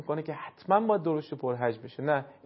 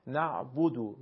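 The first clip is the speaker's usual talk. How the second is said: "نعبدو" with the beat on the "bu" syllable; stress on ba; slower than usual. Shown as a demonstration. Teacher showing where the strike falls in "نعبدو", on ba. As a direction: hit the ب in "نعبدو".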